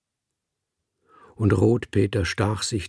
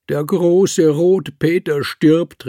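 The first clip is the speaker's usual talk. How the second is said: much higher and louder, slow lamenting call; wailing cry; 8 semitones higher, 8 dB louder, slower than usual. A narrator's reading. Circus director mourns Rotpeter aloud, wailing call. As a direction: cry it out across the whole camp. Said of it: "rief er".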